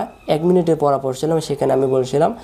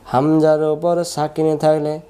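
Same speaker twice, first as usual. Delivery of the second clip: slow, measured sing-song drill; rule recited for students; 2 semitones higher than usual. Shown as a demonstration. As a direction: chant the rule with drawn-out vowels. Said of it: "বলেন তো". (সুর করে নিয়ম মুখস্থ করানো)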